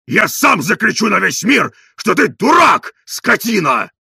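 bellowing insults; shouting. A narrator's reading. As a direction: shout it for the whole world to hear. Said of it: "кричал Тарантьев".

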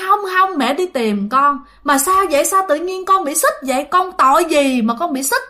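mother begging her chained son for answers; pleading mother. Retold or imitated.

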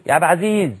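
عبد العزيز run together as ب عزي; swallowed name. Shown as a demonstration. Calling to Abd al-Aziz, words eaten in a hurry. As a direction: clip the name while calling. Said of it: "ما ينفعش".

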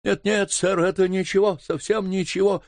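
panicked denial. Acted. Frightened butler cutting in to deny the signal, panicked. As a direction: blurt it out before he's caught.

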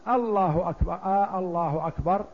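الله أكبر then آه الله أكبر with stretched آه; wrong stretched takbir; questioning takbir. Shown as a demonstration. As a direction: draw out آه as if asking. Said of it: "يقول".

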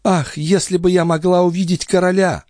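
put-on high young maid's voice; Nicole voice. Maid pleading with the old duke, high girlish voice. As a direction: play the pert young maid.

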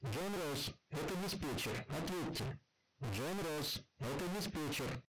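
faint, distant woman over crackling radio; radio dispatcher. A narrator's reading. Dispatcher calling the chief over the radio, crackling. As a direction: call out through static. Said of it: "Сквозь шипение ... раздался женский голос".

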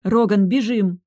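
high, loud slow urgent order; loud alarmed run command; commanding shout. Acted. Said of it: "скомандовала я".

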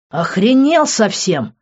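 громче, выше, с угрозой; сорваться на крик; заорал. A narrator's reading. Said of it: "заорал я". (крик на друга)

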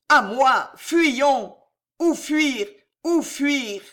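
high loud frantic calls to flee; panicked cry. Acted. Charles in terror calls out for a way to flee, panicked. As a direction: shout in terror, looking for a way out.

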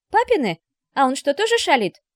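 very high, loud, eager question; little girl pouncing on a secret; curious child. A narrator's reading. Daughter asks mother about fathers' pranks, eagerly curious.

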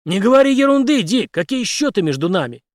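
Henry protests to Dick; indignant. Acted. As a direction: brush off the debt, indignant. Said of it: "возмутился Генри".

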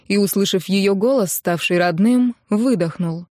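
usual speaking voice

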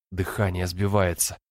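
ordinary delivery

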